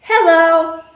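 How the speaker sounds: bright classroom greeting call; teacher call. Shown as a demonstration. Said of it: "When I say hello, you say hi".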